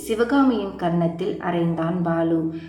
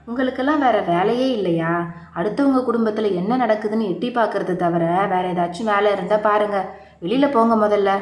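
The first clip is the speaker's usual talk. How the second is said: drunk husband snapping at the nosy neighbour, mildly acted; angry shout; faster than usual. Husband ordering the neighbour out, in mildly acted anger. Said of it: "ஆவேசத்துடன் கத்தினான்".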